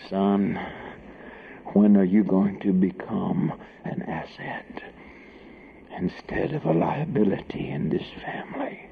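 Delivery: softly menacing mock scolding; mock stern father. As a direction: quietly lecture a son, hammed-up. Mock stern father addresses son.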